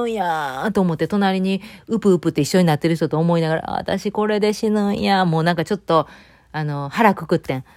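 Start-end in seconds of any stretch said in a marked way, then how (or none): 3.7-5.2 slow, resigned thought "私これで死ぬんや"; accepting death calmly, slowly. Retold or imitated. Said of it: "私これで死ぬんやと思って".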